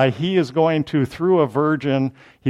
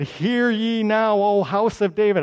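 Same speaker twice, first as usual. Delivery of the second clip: official proclamation; 6 semitones higher than usual. Shown as a demonstration. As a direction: lift it like a royal proclamation. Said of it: "and he's gonna say".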